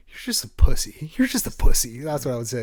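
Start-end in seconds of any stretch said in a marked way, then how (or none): 0.1-1.1 louder, higher taunting shout at the other team; mock trash-talk yell. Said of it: "my go-to was". 1.2-2.0 loud taunt, stress on You're; repeated trash-talk yell. Retold or imitated. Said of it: "my go-to was".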